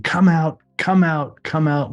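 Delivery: calling a mild mock holler across the street; retold boy hollering for the neighbors, lightly voiced; kid hollering. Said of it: "And he's hollering".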